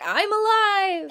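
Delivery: high, slow, hammed-up triumphant shout; triumphant cry. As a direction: belt it out like a swashbuckler back from the dead. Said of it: "Jack Sparrow swings out on a rope like".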